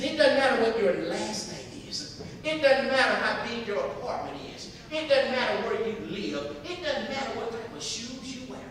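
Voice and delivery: loud, emphatic pep talk; acted motherly conviction; rousing mother. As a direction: drive each point home to a disheartened son.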